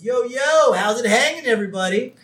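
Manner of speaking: loud, high breezy hello; new guy breezing into the kitchen; cool greeting. Retold or imitated. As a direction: swagger in with the greeting. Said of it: "waltzes into the kitchen and says".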